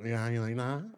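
imagined man's line. Acted. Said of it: "He probably takes it and goes".

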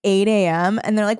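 ordinary talk, nothing marked

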